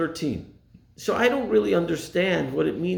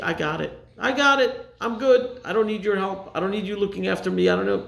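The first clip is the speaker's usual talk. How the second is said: mock cocky dismissal; 4 semitones higher than usual. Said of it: "sometimes we think".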